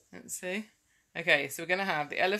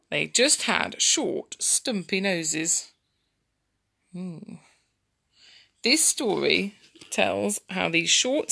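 slow, lilting story narration; storytelling to children; 4 dB louder, much slower than usual. Acted. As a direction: read slowly, stretching key words for little listeners.

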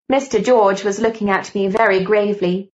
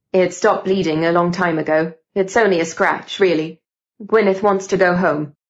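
lightly voiced young man brushing off concern; a hint of a lower male character, unbothered; dismissive Gideon; 3 semitones lower than usual. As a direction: play down the injury in a slightly lowered voice.

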